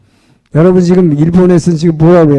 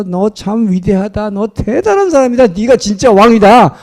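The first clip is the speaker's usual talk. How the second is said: mock wailing; 6 semitones higher than usual. Saul praising David after being spared, mock wailing. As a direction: imitate a wailing king without real sobs. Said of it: "사울이 또 막 통곡을 하면서".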